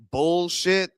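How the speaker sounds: slow American-accented BULLSHIT. Shown as a demonstration. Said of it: "with the American accent".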